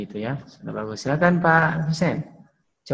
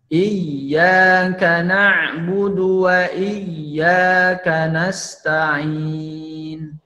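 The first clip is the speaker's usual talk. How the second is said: slow melodic Quran recitation; much slower than usual. Shown as a demonstration. Teacher recites the verse for the students to follow. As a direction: chant the verse slowly and melodically. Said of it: "bareng-bareng".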